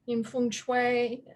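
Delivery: slow, careful Chinese pronunciation of Feng Shui; Chinese accent. Shown as a demonstration. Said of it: "forgive my terrible Chinese accent".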